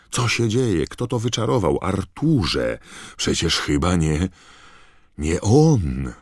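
high, loud, frantic questions; a scared witch grabbing at answers; panicked witch. A narrator's reading. Panicked crowd questions Mr Weasley.

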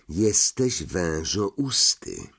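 slow, drawn-out statement; grave accusation. Acted. Ron confronts Harry in the empty common room, grave and slow. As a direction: stretch it out, a little low.

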